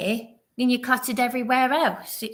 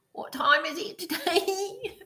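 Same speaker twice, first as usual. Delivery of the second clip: lightly put-on British gent, higher and sing-song; a hint of a prim British colleague asking; Mister British impression; 8 semitones higher, 3 dB quieter than usual. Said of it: "sounded like Mister British".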